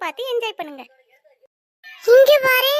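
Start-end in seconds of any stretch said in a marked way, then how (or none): 2.1-2.8 angry call. Acted. Mother calls out angrily.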